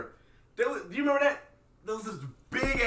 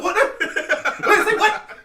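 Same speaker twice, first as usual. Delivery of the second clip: shocked; 10 semitones higher, 9 dB louder, slower than usual. Retold or imitated. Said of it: "I'm like".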